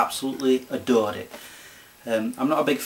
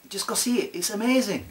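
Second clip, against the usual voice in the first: high-pitched, excited urging; gushing plea; 9 semitones higher than usual. Real, not acted. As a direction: push the pitch right up as you gush. Urging viewers to see film.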